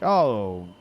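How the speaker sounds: teasing a kid the way a dad does, lightly hammed; fatherly pet names. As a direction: cheer up a kid like a dad would. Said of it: "Like, what someone would call, like, their kid?".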